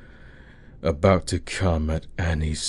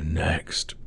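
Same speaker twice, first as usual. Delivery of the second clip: whispered last word; 6 dB quieter than usual. Acted. Teasing his partner about what's next, whispered.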